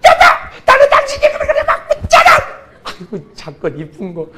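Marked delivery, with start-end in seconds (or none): 0.0-2.3 very high, loud laughing husband voice; doting husband. Acted. Husband cooing at his sulking wife, high and laughing. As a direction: squeal it like a besotted husband, laughing.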